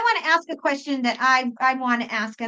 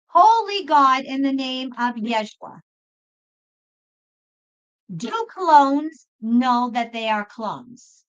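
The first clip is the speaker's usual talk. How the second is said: slow, deliberate prayer question; formal spoken petition to God; slower than usual. Real, not acted. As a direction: ask God solemnly, starting strong and slowing down.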